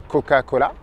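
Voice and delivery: the C in "Coca-Cola" said as a hard k; C dur français. Shown as a demonstration. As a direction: say "Coca-Cola" with a crisp k sound for each C. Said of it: "ça peut se prononcer que". (C prononcé « k » dans « Coca-Cola »)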